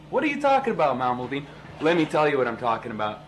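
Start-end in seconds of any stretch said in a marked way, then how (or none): 0.1-1.4 incredulous. Acted. Mock incredulous question.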